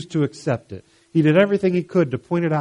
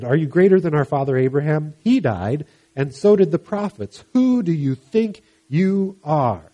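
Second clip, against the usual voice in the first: indignant crowd; 3 semitones higher, 4 dB louder than usual. Acted. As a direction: throw "Who do you think you are?" back at him. Crowd challenges Jesus, indignant.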